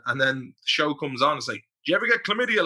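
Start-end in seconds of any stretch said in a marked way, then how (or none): 1.8-2.6 mock character line. Quoting the show's opening line.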